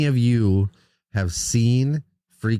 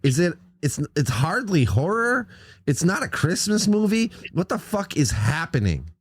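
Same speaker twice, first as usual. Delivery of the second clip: higher-pitched, questioning mock exasperation; retold bafflement; 5 semitones higher than usual. Host retelling his confusion over who the movie is for, mock bafflement. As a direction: act out baffled back-and-forth with yourself.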